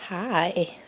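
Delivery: tiny whispered hi. Real, not acted. Whispering to baby.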